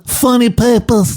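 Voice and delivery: high, slow plummy British voice with a laugh; mock Alec Guinness. Podcast host plays a newsboy as Alec Guinness, high and laughing. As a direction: do old Guinness hawking papers, laughing. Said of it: "I do a fantastic Alec Guinness impression".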